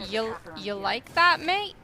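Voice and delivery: tentative British-Australian accent, rising on the last word; attempted British-Australian accent. Shown as a demonstration. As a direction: have an unsure go at British or Australian. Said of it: "British accent or Australian accent".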